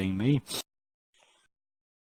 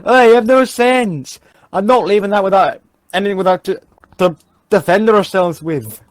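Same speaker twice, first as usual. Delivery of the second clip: Jamie impression; 3 semitones higher, 3 dB louder than usual.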